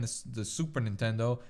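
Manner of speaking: Italian accent. Real, not acted. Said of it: "develop an extremely heavy Italian accent when saying Super Nintendo".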